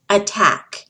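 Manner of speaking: "attack" with a stressed short A on TACK; attack again. Shown as a demonstration. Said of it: "pronounced attack".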